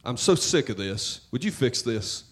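fed-up complaining to God, half-acted; a weary, nagging rant of a prayer; a mock rant at God, sick and tired; exasperated rant. Shown as a demonstration. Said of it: "a rant sounds like this".

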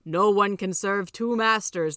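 slow, loud, solemn decree; weighty heavenly pronouncement; insistent angel. A narrator's reading. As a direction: lay down the law slowly and firmly. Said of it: "the angels were insistent".

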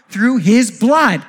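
Through his blood, drawn out slow with the weight on blood; slow emphatic. Acted. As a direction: land each word slowly. Preacher stresses the key phrase.

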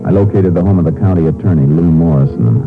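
steady storyteller voice over music; drama narration. A narrator's reading. Narrator opening the grave scene, even and measured. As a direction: set the scene evenly.

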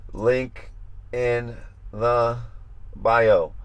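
"Link", "in the", "bio" with pauses between; word by word. Shown as a demonstration. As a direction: spell out "Link in the bio" in separate, deliberate pieces. Spells out the reminder slowly.

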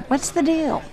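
exasperated father. Retold or imitated. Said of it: "his father says".

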